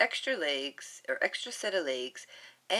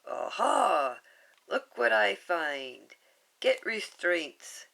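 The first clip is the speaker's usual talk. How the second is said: louder, slow gloating voice; triumphant villain; 5 dB louder, slower than usual. Acted. Jumba triumphant over the trapped Stitch, louder and slow.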